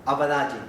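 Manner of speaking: Abadayim said carefully, each syllable clear; model pronunciation. Shown as a demonstration. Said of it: "fíjense cómo suena".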